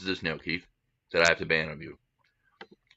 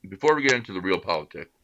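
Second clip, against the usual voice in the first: talking through a mouthful of food; mouth full. Real, not acted. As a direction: speak while chewing. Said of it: "speaking with your mouth full".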